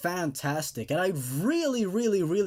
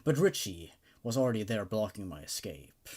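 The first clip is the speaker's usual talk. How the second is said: dramatic horror story narration. A narrator's reading. Narrator reading a horror story aloud to his audience, dramatic and immersed. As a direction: read it like a creepy campfire tale. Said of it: "while I was narrating that, I was getting into the story".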